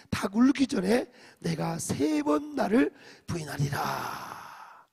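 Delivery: loud, slow recitation of the verse; loud group scripture reading. Shown as a demonstration. Pastor reads Jesus' warning aloud, loud slow recitation. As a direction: read 닭 울기 전에 out slow and loud to the hall. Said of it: "삼십팔 절 시작".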